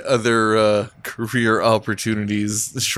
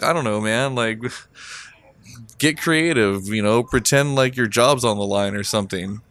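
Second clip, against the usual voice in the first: real calmly. Retold or imitated. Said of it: "I'm like, real calmly".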